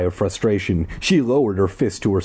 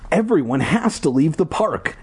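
raised, higher urgent call; urgent cry; 6 semitones higher than usual. Acted. Ashley crying out to warn the park, urgent. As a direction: sound the alarm to the crowd. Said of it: "Ashley cried".

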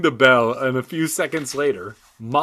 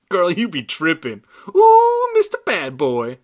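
squeaky ventriloquist dummy; 5 semitones higher, 8 dB louder than usual. Acted. Dummy taunts while tripping.

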